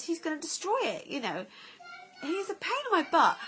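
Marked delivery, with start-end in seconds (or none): 2.2-3.4 laughing. Real, not acted. Laughing exasperation.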